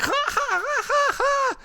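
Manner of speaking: very high, mock guffaw; hammed-up high-pitched ha-ha laughter; Michael Bay. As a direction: imitate someone cackling away in falsetto.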